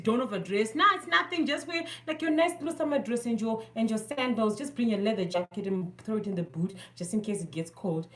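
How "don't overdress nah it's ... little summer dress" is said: mimicking friends. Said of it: "pa group panenge vachinzi".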